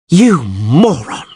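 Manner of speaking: slow, seething shout; furious yell. A narrator's reading. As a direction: spit the insult at him. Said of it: "Yennefer yelled".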